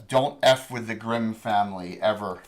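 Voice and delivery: a hint of a southern accent, warning. GM voicing a distant southern woman's threat, light southern accent. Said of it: "sounds like a southern accent".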